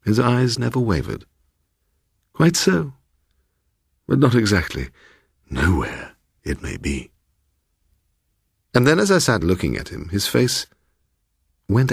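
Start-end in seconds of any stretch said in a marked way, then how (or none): 2.3-7.1 lightly voiced fussy old man; a hint of a pompous host; eccentric old gentleman. Mister Bloom.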